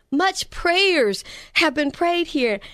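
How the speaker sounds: put-on slow, deliberate Jamaican accent, each word weighed; lightly Jamaican, slowed right down for emphasis. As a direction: repeat it slowly in a Jamaican lilt. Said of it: "this amazing Jamaican accent".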